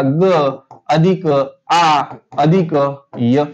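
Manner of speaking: "ग अधिक आ अधिक य" in slow, separated pieces; sound-by-sound breakdown. Shown as a demonstration. Teacher splitting the syllable for students, slow separated "ग अधिक आ". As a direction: hold "आ" long and pause between sounds. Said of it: "गाची फोड केली तर बघा".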